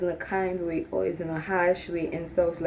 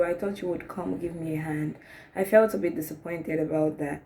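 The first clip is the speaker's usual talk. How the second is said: soft disappointed voice; 2 semitones lower, 4 dB quieter than usual. Acted. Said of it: "You can just come out and be like".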